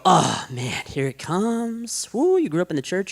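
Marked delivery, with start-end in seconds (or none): 0.0-2.1 higher and slow, a knowing mock sigh of dread; mock listener groan. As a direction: play the bored churchgoer who saw it coming. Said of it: "this is the part of the sermon you go".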